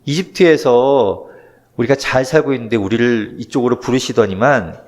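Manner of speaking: mock wailing lament. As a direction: wail it out like a grieving crowd, lightly played. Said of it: "막 통곡하면서 울고 있는 거죠".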